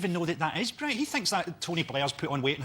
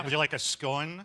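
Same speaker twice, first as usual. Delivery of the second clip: creepy sexy voice; 3 semitones lower than usual. Shown as a demonstration. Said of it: "when you say it like that".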